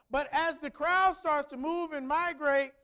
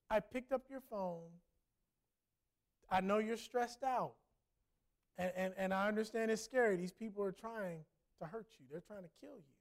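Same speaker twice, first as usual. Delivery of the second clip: softer and softer, fading to a hush; retold whisper; 5 semitones lower, 6 dB quieter than usual. Stranger comforting the woman in the riot, hushed. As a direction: let it sink to a near whisper. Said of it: "that's what he whispered in her ear".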